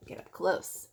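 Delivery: put-on soft whisper to the child; whispered aside. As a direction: lean in and whisper. Aside to the listener.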